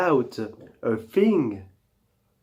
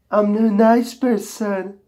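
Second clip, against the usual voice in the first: pitched up, sweet and friendly; high nice voice; 5 semitones higher than usual. Pretend. Host claims he is a nice person, high sweet voice. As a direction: chirp it like a harmless nice guy. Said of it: "It's my true voice".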